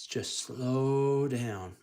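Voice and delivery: drawn-out, very slow; slow deliberate advice. Acted. Sir Topham Hatt reminding Thomas, very slow. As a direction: stretch each word out slowly. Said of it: "Sir Top Hat says".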